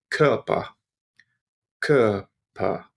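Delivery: "Körper" with the "r" swallowed into the vowel; soft German R. Shown as a demonstration. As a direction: let the "r" of "Körper" vanish into the vowel. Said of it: "The R is almost not heard".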